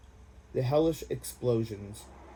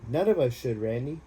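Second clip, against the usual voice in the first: shouted; 3 dB louder than usual. Acted. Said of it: "He shouted for the world to hear".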